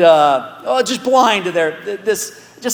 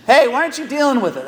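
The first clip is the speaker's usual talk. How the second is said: Paul's challenge; 6 semitones higher, much faster than usual. Retold or imitated. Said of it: "That's kinda what he's saying".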